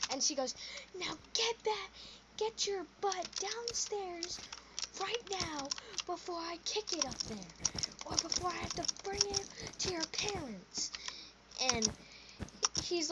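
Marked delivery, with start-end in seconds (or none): 1.0-10.9 put-on reprimanding voice; scolding lady. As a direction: order him off like a stern woman. Imitating lady ordering boy downstairs.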